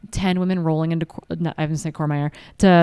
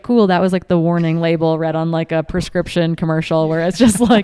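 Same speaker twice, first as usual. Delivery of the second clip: hyper speed read; 5 dB louder than usual. Pretend. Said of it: "incredibly hyper, hyper speed".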